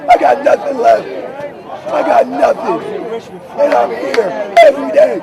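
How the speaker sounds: tired but loud. Real, not acted. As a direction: push the words out, drained. Exhausted protester speaks out.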